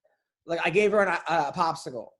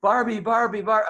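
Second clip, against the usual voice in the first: imitated demanding child; 4 semitones higher, 5 dB louder than usual. Acts out daughter's demand.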